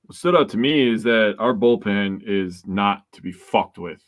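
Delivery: slow, weighty, every word leaned on; with emphasis. Real, not acted. Podcaster stressing that the bullpen is not to be messed with, slow, weighty emphasis. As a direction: lay it down slowly and firmly. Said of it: "I had to say that with emphasis".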